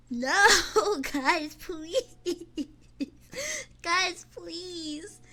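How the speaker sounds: loud no breaking into laughter; giggling please, half crying; laughing plea. Real, not acted. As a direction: beg through helpless laughs.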